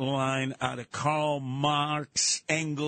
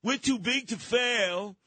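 high, slow smug banker; drawn-out mock banker; 6 semitones higher, slower than usual. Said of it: "nonsensical term".

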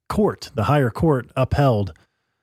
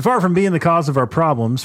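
raised-pitch read-aloud voice; transcription voice; 6 semitones higher than usual. Acted. Host reading a translated speech to co-host, transcription voice. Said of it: "I'll do my best transcription voice".

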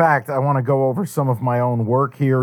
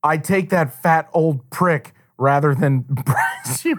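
slow dramatic reading; much slower than usual. Retold or imitated. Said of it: "this is a direct response".

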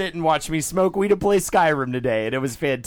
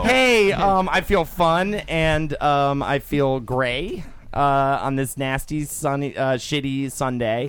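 mock prayer; 2 semitones lower, slower than usual. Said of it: "I'm gonna do a prayer".

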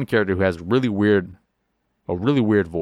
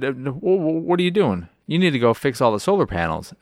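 mock game voice; 5 semitones higher than usual. Game voice scolding player.

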